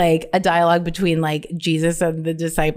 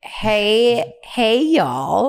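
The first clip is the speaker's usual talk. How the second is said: trying out hey y'all; 4 semitones higher, much slower than usual. Shown as a demonstration. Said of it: "is there a better alternative".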